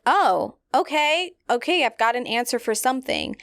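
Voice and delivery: relieved to finally get an answer; patient hears the diagnosis, relieved; retold relief. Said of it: "and I was like".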